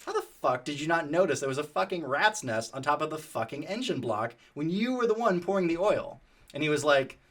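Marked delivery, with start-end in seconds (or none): 0.0-6.2 mock angry rant at a friend, rising higher at the end; retold yelling. Yelling at Tyler about the rat's nest, mild mock anger. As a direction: replay the tirade with a touch of heat. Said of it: "I remember yelling at Tyler".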